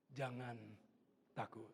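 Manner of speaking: low, measured words with pauses; calm reassurance. Retold or imitated. God reassuring the sinner, calm and low. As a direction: let each word settle gently. Quotes God's reassuring message.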